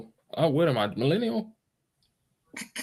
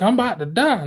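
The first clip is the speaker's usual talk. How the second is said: mock dying panic; 11 semitones higher, 4 dB louder, faster than usual. Patient panicking.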